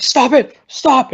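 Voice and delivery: mock shouted command. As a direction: call out over a brawl, playacting. Doctor runs in to stop fight.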